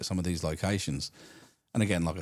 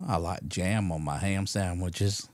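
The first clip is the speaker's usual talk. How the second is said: drawn-out, slow caller voice; imitated odd caller; 3 semitones lower, slower than usual. Odd caller answers the radio host, slow drawn-out mock voice. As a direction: play a slow, kooky phone-in caller. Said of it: "he'd bring the next one".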